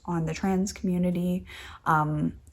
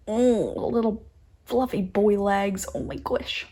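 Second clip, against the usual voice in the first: cute-thing voice. Real, not acted. Gushing over the bumblebee's fluffy legs, cooing. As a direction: coo over the fluffy bee. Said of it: "this voice just comes out".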